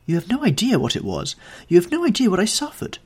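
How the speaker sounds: high-pitched, rising protest; upset lover's outburst; agitated reproach. A narrator's reading. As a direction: build in pitch as the complaint repeats. Amazed lover reproaches the smiling actress.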